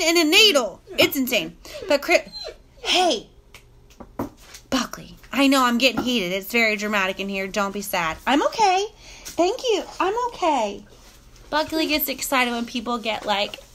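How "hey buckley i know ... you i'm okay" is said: soothing a dog. Real, not acted. Vlogger calming Buckley the dog mid-story, soothing. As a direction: reassure a pet gently, voice lifting at the end.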